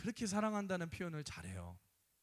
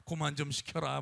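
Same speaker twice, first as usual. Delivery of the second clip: grumbling reluctance; 5 dB louder than usual. Retold or imitated. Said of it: "막 이런 느낌으로".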